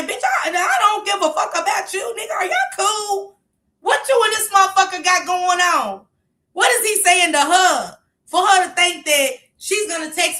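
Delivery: high, loud, exasperated rant; angry outburst. Real, not acted. Woman confronts texter about her man, angrily exasperated. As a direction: demand answers at the top of your patience. Ranting back at the texting woman.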